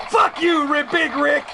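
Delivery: high, mock-angry outburst; heel insult. Heel host insults arriving friend, high mock anger. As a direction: greet him with a villain's curse. Heel greeting, then corrects to welcome.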